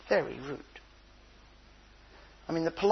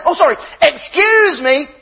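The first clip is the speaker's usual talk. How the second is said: laughing apology; 7 semitones higher, 12 dB louder than usual. Retold or imitated. Grandad retelling baby game.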